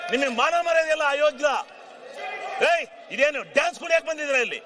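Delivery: furious heckling shout; real angry yell across the house. Real, not acted. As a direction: shout them down in outrage. Heckling opponents in assembly.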